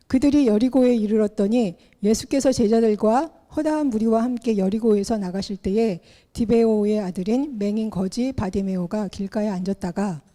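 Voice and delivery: measured, solemn Bible reading; scripture reading. Acted. Pastor reading Mark ten to the congregation, solemn reading. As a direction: read the passage out like a pastor at the pulpit. Reads scripture passage aloud.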